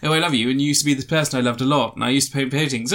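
quick, exaggerated English accent. Alien's wife reminisces about their love, exaggerated English accent. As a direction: play the wife in hammed-up English. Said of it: "went even more English".

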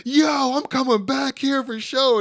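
high, loud, drawn-out mock excitement; R-Truth. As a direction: call it out slowly like a thrilled wrestler. Acting Truth delighted, turning to Wes.

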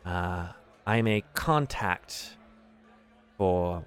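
lightly voiced faction contact, measured and hesitant; diplomatic Davil. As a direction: choose words carefully, with long pauses. Game master plays Davil.

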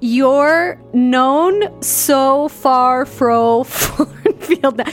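very slow, high, loud fake Yorkshire; bad Yorkshire accent. Reader retrying the driver's line, botched Yorkshire accent. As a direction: stretch every word in a hammed-up Yorkshire try. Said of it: "you don't have a Yorkshire accent".

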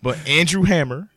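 name said high through laughter; laughing. Shown as a demonstration. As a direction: giggle the name out, high and loud. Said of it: "Why you say it like that?".

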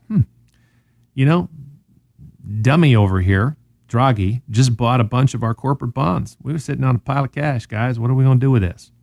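bad European accent. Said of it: "my best European accent".

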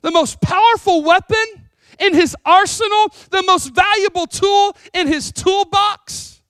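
loud, high, emphatic proclamation; full-force preaching. Real, not acted. Preacher exalting prayer as Jesus' greatest weapon, fervent shout. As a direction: drive each phrase home from the pulpit.

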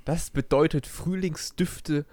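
slow, drawn-out verse reading; Gedichtvortrag. Acted. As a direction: read the verse slowly, line by line. Liest die Strophe erneut vor. (langsam vorgetragenes Gedicht)

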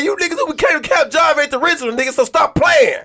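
shouting. Real, not acted. Heated hood-origin argument.

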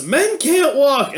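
high, drawn-out mock shout. Retelling a cartoon girl's magic command, high mock shout. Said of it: "she just shouts".

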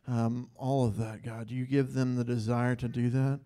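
steady, earnest prayer voice; heartfelt prayer. Real, not acted. Leader prays over the pastor couple in front of the church, earnest.

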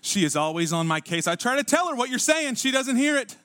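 mock husband's grievance, climbing in pitch; complaining husband. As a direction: whine about the wife as a put-upon husband. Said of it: "You're like".

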